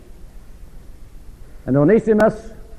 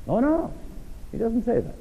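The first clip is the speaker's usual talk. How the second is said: mock protest; 8 semitones higher, 7 dB quieter than usual. Real, not acted. Preacher rejects idea.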